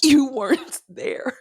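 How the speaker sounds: slow whispered aside. Real, not acted. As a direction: breathe it out, slow and wistful. I'm literally getting choked up.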